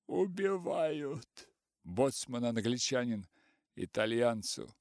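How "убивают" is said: slow, drawn-out, higher languid moan. A narrator's reading. Артур томно жалуется толпе, вяло и протяжно. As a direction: lament it lazily, almost theatrically. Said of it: "Артур томно".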